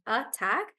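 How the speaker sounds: attack with weight on second syllable TACK; stress on TACK. Shown as a demonstration. Teacher noting the exception, attack stressed on TACK. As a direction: lean into TACK, not the first syllable of attack. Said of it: "It's on the second syllable".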